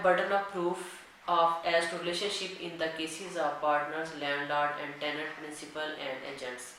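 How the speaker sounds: dictating a legal section to students at x0.3; slow, deliberate reading of the act; slow statute dictation. Acted. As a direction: read the law word by word, very slowly. Reads the statute text aloud.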